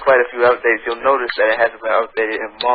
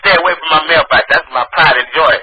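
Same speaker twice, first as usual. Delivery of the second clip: put-on country accent, indignant; countrified mock outrage; 3 semitones higher than usual. Prank caller defending his mailbox, indignant country accent. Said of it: "my country ass voice".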